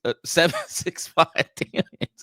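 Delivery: stumbling over the words while giggling; losing it mid-read; laughing at own mistake. Real, not acted. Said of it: "I can't talk right now".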